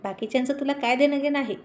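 a touch of sisterly mockery; little sister teasing brother about his girlfriend, mock scorn; taunting. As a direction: needle him, lightly sneering. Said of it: "टोमणे मारत म्हणाली".

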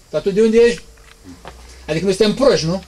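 lightly voiced scornful doubter; mocking scoffer. Preacher mimics mockers doubting Jesus, mild sneering voice.

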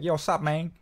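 light American gangster slang voice; a hint of American gangster swagger; American gangster accent. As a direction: toss it out like American MTV gangster. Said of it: "like, American gangster M T V stuff".

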